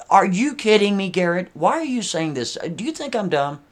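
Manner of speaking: hammed-up affront at being fooled; smarmy indignation. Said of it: "she starts getting real smarmy with him".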